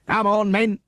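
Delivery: loud rallying call; rally the men to chase; yell. A narrator's reading. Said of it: "yelled Sergeant Patterson".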